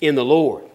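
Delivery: "In the Lord" set apart with a falling close; stress on Lord. Shown as a demonstration. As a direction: point out "Lord" with a firm drop. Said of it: "But notice what it says".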